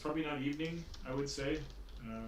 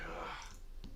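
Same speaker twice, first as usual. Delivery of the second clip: low, soft breathy sigh; weary groan; 10 semitones lower, 8 dB quieter than usual. Retold or imitated. Game master voices her reaction to damage, low sighing groan. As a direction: let out a quiet, breathy "ugh". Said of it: "she's like".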